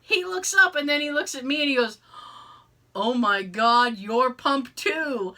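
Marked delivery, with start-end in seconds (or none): 2.9-5.4 laughing quote. Retold or imitated. Coworker recognizing her, laughing.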